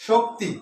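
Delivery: শক্তি said with its two syllables set apart; a teacher's demonstration of শক্তি in two beats; syllables marked off. Shown as a demonstration. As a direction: mark both syllables of শক্তি clearly. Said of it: "শোক হচ্ছে কি একসাথে".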